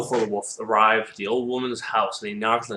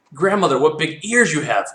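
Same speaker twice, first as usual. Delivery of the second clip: put-on louder, higher child of wonder; amazed little girl; 5 semitones higher, 7 dB louder than usual. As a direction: exclaim at grandmother, pitched up. Plays amazed Red Riding Hood.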